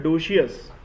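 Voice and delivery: "डोशियस" as "DO-shi-us"; three syllables in "डोशियस", extra "i"; common mispronunciation. Shown as a demonstration. Teacher mimicking many people's version, common mispronunciation. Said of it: "बहुत से लोगों का pronunciation होता है".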